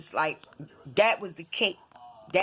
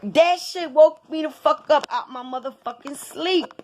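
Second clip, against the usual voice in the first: raised, higher-pitched outraged telling; indignant complaint; 6 semitones higher than usual. Real, not acted. Recounting being rudely woken.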